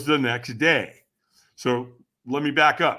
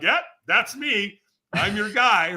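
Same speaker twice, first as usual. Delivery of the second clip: higher, drawn-out self-congratulation; playful cocky boast; 5 semitones higher, slower than usual. Acted. Anyone owning a feat they can't explain, jokingly cocky. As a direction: puff it up jokingly.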